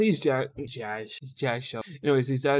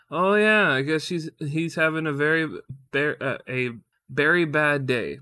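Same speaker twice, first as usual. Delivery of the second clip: stumbled quote; 2 semitones higher, 3 dB louder than usual. Retold or imitated. Husband imitating wife's berry pun, botched and halting. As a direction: fumble the pun line, restarting mid-sentence. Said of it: "Oh, I already fucked it up".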